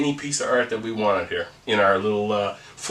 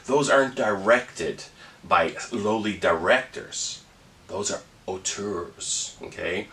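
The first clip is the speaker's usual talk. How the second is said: pompous film snob; 4 semitones lower, 4 dB quieter than usual. Pretend. Mock highbrow film snob lecture.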